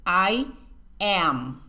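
"am" ending with the lips pressed shut on the m; lips closed on m. Shown as a demonstration. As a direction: close the mouth fully on the final m of "am". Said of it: "hay que cerrar la boca".

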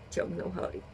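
ordinary delivery

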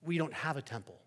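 calm, plain-voiced believer's answer; Christian answering the neighbor, calmly. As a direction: answer simply and steadily. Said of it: "says the Christian".

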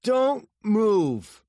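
loud, high-pitched command; forceful shouted warning; threatening order. A narrator's reading. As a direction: order a captive at gunpoint. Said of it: "Mills put his gun to Doe's face".

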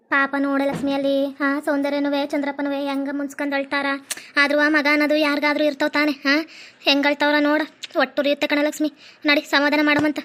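a touch of pity for the weeping parents; lightly voiced pitying neighbour. Neighbour urging Lakshmi to go console the crying couple, mildly pitying.

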